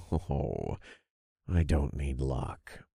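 soft, slow smug reply; low and smug, taking your time; smirking. A narrator's reading. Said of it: "I smirked".

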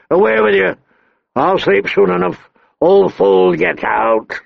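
angry. Acted. Dying king drives out maester.

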